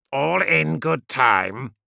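slow, measured, unruffled; drawn-out calm answer; unhurried reply. Acted. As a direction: take your time, coolly. Pilot calmly puts off gunner.

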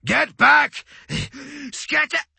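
high, full-force warning shout; roar. A narrator's reading. Officer ordering his troops to scatter, roaring. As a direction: roar the order over the chaos. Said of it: "he roared".

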